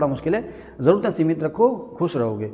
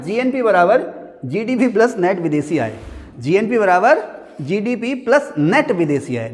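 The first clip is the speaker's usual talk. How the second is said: slow dictation. Shown as a demonstration. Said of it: "देखो मैंने लिखा है".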